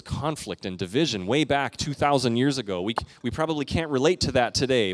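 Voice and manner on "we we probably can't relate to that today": mock-sincere, tongue in cheek; sarcastic. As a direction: say it with dry sarcasm, as if it were true. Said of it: "but I'm being sarcastic".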